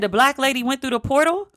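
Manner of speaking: playing her mom who can't believe it; incredulous mom. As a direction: daughter imitating her mother's amazed question. Mom's disbelief, retold to daughter.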